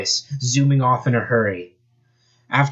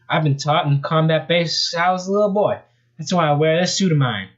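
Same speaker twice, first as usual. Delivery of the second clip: put-on Australian accent; 6 semitones higher than usual. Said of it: "got an accent ready".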